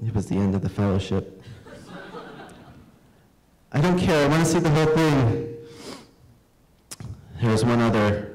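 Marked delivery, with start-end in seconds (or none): 3.7-5.6 put-on high, stubborn boy; a hint of a stubborn little boy; insistent kid. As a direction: plead like a hurt child. Guest insisting through tears.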